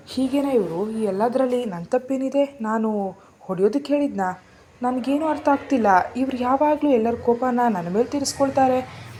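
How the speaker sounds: indignant muttering. Acted. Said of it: "ತನ್ನಷ್ಟಕ್ಕೆ ಮಾತನಾಡ್ಕೊಂಡು".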